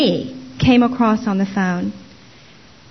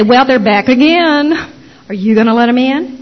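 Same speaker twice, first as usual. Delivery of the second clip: neighbors' warning call; 3 semitones higher, 5 dB louder than usual. Retold or imitated. Neighbors' alarm call about witnesses.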